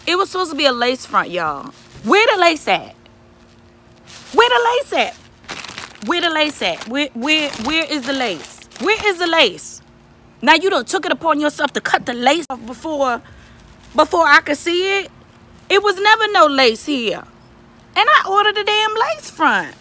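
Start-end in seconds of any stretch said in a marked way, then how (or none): 2.0-9.8 indignant demand. Real, not acted. Demanding the missing lace. 10.4-19.7 rising rant. Real, not acted. Ranting at the company.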